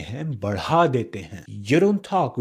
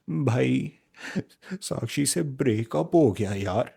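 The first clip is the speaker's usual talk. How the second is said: heartbroken call; 4 dB quieter than usual. Shown as a demonstration. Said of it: "emotion उछल उछल कर आया".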